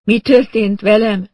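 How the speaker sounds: high, loud, slow woman in shock; stunned, drawn-out groan; dazed moaning. A narrator's reading. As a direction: moan it as if barely conscious. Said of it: "nyögte".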